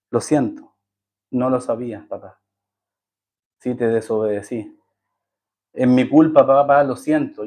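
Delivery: put-on soft, tearful apology from a child, understated; a touch of a sobbing boy saying sorry; crying child. (niño que pide perdón a su papá, llorando suavemente)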